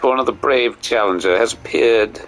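high, announcing herald voice; grand mock announcer; arena announcer. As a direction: call the crowd in like a ringmaster.

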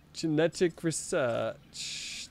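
put-on "Genetic research" drawn out slowly in a playful British accent; slow mock British. Gamer repeating the menu item to viewers, in slow mock British. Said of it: "I don't know why I've gone British".

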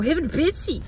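put-on broad Australian accent catchphrase; Farmer Mick. Quoting the reality-show groom, Australian accent. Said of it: "I go".

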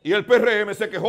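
riéndose mientras lo dice; riendo. Real, not acted. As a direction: suelta la frase entre risas. Discusión que acaba en risa. (se ríe discutiendo con el otro invitado)

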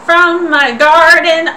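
put-on old lady voice. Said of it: "I'm losing my old lady voice real hard".

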